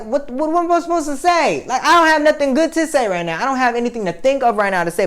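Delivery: very high, exasperated rant; re-enacted high-pitched outburst, easing at the end; retold yelling. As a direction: wail it, at a loss for words. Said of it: "like, yelling and".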